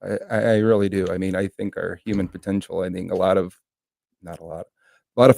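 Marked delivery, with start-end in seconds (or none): none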